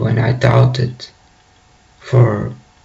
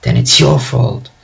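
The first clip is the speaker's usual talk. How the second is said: retold angry scream; 3 semitones higher than usual. Bilbo screaming back at Gandalf, a restrained mock scream. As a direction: act out an angry outburst without really shouting. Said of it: "Bilbo screams at him and says".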